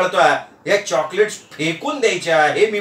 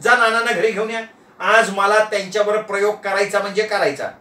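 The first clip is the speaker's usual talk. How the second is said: lightly voiced commanding wife; insistent domestic command; issuing a decree; 2 semitones higher than usual. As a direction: lay down the order, no argument. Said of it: "असं फरमान सोडलं".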